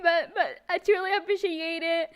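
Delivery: real tears on a big moment; crying. Real, not acted. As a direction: push out grateful words through tears. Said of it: "I will start crying more".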